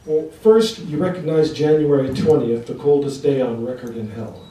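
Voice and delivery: declaimed verse for a live audience; poetry reading. Acted. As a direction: launch the poem loud and firm, then let it settle. Opens poem to audience.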